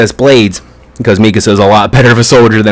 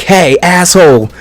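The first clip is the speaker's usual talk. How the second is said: higher-pitched mock taunt; retold scream; 5 semitones higher than usual. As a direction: imitate an angry call without full volume. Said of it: "you know, screaming in his head".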